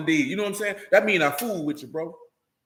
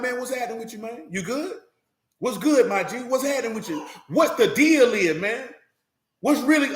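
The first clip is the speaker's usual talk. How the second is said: casual street greeting; 3 semitones higher than usual. Shown as a demonstration. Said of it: "this how I talk".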